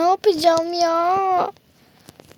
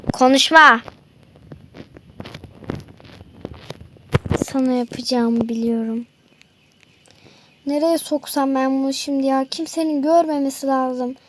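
lower, menacing kidnapper; a low, menacing villain catching his victim; 4 semitones lower than usual. Acted. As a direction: growl it like a gloating villain. Villain hides the captive.

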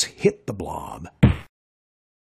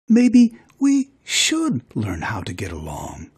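whisper. Acted. Wife gently makes peace.

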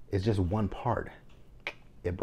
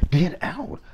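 a retold yell, higher and louder; mock yell; 10 semitones higher, 5 dB louder than usual. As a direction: bark it like throwing them out. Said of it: "she went off on them".

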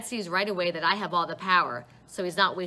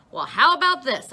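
a loud shout, pitched up, at his parents; 7 semitones higher, 10 dB louder than usual. A narrator's reading. Boy shouting at his parents at the kitchen table. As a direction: yell it in their faces. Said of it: "I'm shouting".

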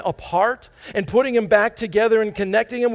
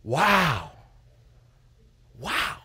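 wow; 6 semitones lower, 4 dB quieter than usual. Retold or imitated. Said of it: "I say".

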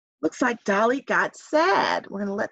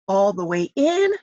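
calming breath demonstration; deep breath demo. Shown as a demonstration. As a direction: show the kids how to breathe all the way out. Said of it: "Do that with me, everybody".

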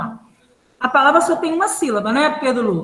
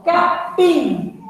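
capim pitched up, stretched on final pim; stress on last syllable; 5 semitones higher than usual. Shown as a demonstration. Teacher showing an unaccented word, stressed ending. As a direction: say capim with a strong, long pim. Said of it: "A última não é mais forte?".

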